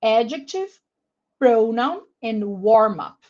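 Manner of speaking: adjective, pronoun and warm up, each stressed on its first syllable. Shown as a demonstration. Teacher models first-syllable stress for the class. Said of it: "all have the stress on the first syllable".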